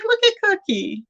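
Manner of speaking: high, delighted squeal of affection; gushing. Retold or imitated. Watching Cookie at the bus stop, high delighted gushing. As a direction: coo over her like she's adorable.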